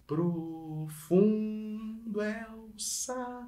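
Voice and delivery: soft demo. Shown as a demonstration. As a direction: hush it and hold fundo. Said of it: "qual é que eu vou gastar um pouquinho mais".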